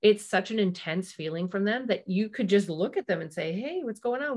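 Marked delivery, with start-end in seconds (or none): 3.5-4.4 light, friendly "hey" pitched up; kind gentle check-in. Retold or imitated. Parent gently asking a sensitive child what's up. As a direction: ask gently with the nicest look. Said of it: "with, like, the nicest look on your face".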